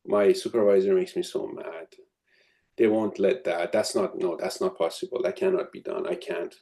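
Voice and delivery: a lightly voiced helpless complainer; mock resignation. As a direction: sound like someone who has given up. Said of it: "reactive language is things like".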